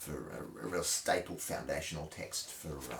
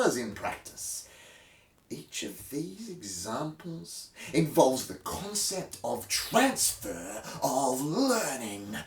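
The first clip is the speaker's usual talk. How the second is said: over-the-top theatrical reading of a dry textbook; mock-epic textbook recital with wild pitch swings; dramatic reading. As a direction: read it like a grand stage monologue, swelling and whispering. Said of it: "where I read a random page dramatically from a textbook".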